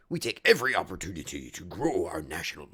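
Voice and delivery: low menacing whisper; sinister hushed villain line. Pretend. Voicing angry man character.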